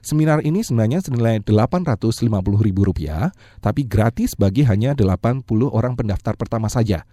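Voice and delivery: upbeat sales pitch; infomercial. Acted. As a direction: pitch it like a radio ad. Seminar promo pitch.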